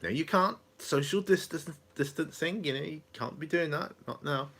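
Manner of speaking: lightly teasing his mum back; playful retort. Retold or imitated. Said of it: "I said".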